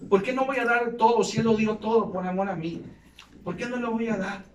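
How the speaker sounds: building preacher's exhortation; rising sermon. Acted. Preacher challenging the church to give all, building. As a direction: urge the congregation to give everything.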